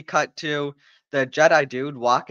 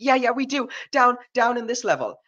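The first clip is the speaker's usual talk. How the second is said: mock nervous alien; 10 semitones higher than usual. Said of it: "the Trade Federation's partner is like".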